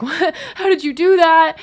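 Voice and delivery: surprised. Retold or imitated. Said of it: "he's like".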